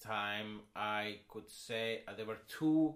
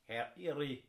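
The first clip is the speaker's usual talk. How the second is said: put-on a half-Scottish Polish accent, rising higher; 6 semitones higher, 3 dB louder than usual. Retrying the name for co-host in mock Polish. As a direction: keep trying to land the Polish accent. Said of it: "I almost sounded Scottish".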